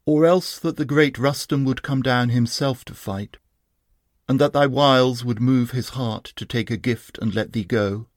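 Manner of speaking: lightly voiced bitter mockery; a hint of a scornful warrior; bitter taunt. Rustum taunts the fallen Sohrab with bitter scorn. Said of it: "with a bitter smile Rustum began".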